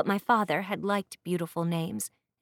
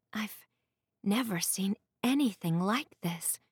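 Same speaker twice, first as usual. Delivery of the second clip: awed. Acted. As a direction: let the wonder slip out despite yourself. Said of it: "unable to keep all the awe out of my voice".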